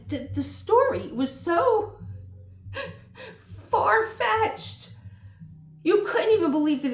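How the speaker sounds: high and loud, laughing at how absurd it was; laughing disbelief, slowed; amused disbelief. Real, not acted. Telling viewers about a far-fetched show, laughing loud.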